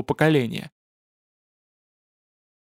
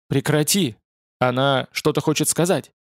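ordinary delivery, nothing marked

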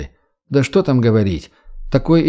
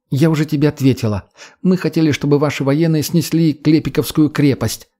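slightly raised pitch, insistent; lightly voiced earnest young woman; 3 semitones higher than usual. Redhead captive justifying herself to the boy, lightly voiced earnestness. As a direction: explain the cause with conviction.

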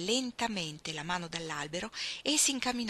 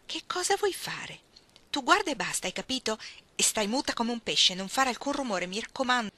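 put-on higher, urgent girlish voices; tense excitement; 5 semitones higher, 3 dB louder than usual. Iggy ordering Ruth to stay put, urgent and higher. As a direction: keep it tight and urgent. Hushed excited exchange before bees.

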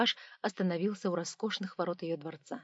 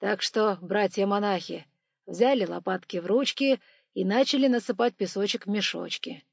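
engineer voice; 5 dB louder than usual. Acted. Engineer orders the monks.

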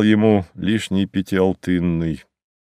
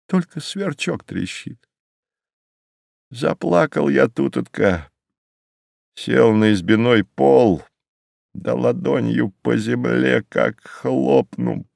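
grieving cabman; 3 semitones higher than usual. Acted. Cabman recalling his empty house to the passenger, sorrowfully. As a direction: tell it as a man reliving his loss.

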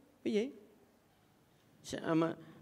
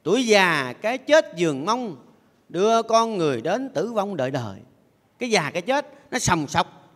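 chậm rãi ngâm như đọc kệ; ngân nga từng chữ như ngâm thơ. Acted. Sư thầy ngâm thơ giảng pháp. (giọng ngâm thơ thiền)

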